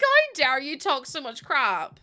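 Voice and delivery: mock-furious telling off; retold angry retort. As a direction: tell her off, slowly and pointedly. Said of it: "I was so cross".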